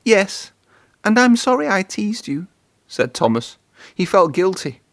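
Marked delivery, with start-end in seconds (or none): 0.0-2.5 sheepish apology. A narrator's reading. Thomas apologizing.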